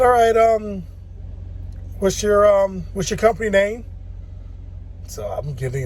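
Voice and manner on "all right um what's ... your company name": dispatcher voice. Retold or imitated. Voicing the dispatcher lady.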